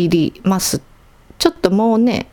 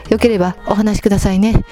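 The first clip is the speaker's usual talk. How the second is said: a lightly dramatic comic-book narrator voice, a bit faster; dramatic manga-style reading; 3 semitones higher, faster than usual. Acted. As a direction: read the letter like an over-serious gekiga narration. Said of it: "劇画チックに読んだんですけど". (劇画チックに少し大げさに読み上げる)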